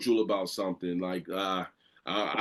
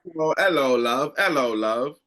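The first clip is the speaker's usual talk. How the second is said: put-on a light, playful British accent; mock British accent; 4 dB louder than usual. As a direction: greet her in a hammed-up British accent. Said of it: "my British accent".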